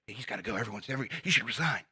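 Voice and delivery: hushed, gossipy mock whisper; quietly voiced rumor-spreading, half whispered; imitated whispering. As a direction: pass it along under your breath, softly. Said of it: "then start whispering".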